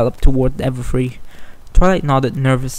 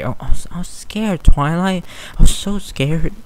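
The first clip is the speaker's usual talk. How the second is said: scared; 5 semitones higher than usual. Acted. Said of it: "she whispered again".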